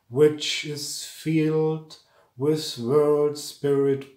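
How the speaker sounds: slow, measured chant-like delivery with drawn-out words; mantric verse recitation. Shown as a demonstration. Teacher reciting a mantric verse to students, slow solemn recitation. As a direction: recite each line deliberately, pausing between phrases.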